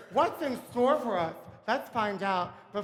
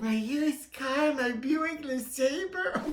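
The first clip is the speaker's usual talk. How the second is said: slow laughing disbelief; 5 semitones higher, slower than usual. Acted.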